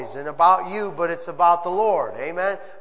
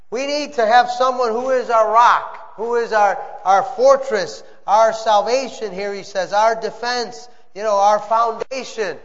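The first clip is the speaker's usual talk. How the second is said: rising preacher fervour; preaching; 2 semitones higher, 3 dB louder than usual. Acted. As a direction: build it up like a preacher.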